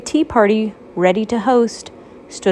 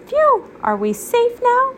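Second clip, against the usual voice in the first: relieved Toast. Acted. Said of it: "asked Toast".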